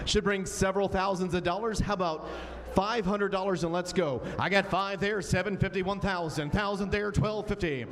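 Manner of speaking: brisk auction bid calling; auctioneer. Acted. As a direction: call the bids like an auctioneer.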